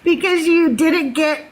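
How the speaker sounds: teasing through laughter; imitated teasing laughter. Doug ribbing her over a lost bargain, laughing. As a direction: laugh while mimicking his ribbing. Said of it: "Doug was laughing at me".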